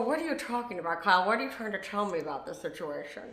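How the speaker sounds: lightly mocked attempt at a gangster voice; Lisa Rinna. Retelling a friend's imitation in a put-on gangster voice. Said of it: "Lisa Rinna imitates it".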